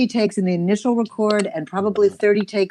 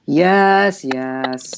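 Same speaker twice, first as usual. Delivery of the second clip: actor's scripted line; 6 semitones lower, 3 dB louder than usual. Shown as a demonstration. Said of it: "an actor who had to say".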